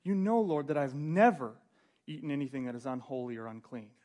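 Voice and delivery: rising loud indignant refusal; indignant protest. Acted. Peter refusing God's command, loud and offended. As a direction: push back hard, offended. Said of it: "almost like".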